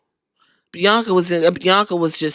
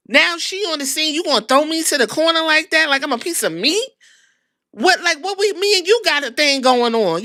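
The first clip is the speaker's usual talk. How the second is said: high, wounded pleading voice raised above her own; hurt pleading Naomi; 6 semitones higher than usual. Retold or imitated. Naomi begging Bianca not to drop her, high hurt voice. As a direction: plead like a friend who feels betrayed.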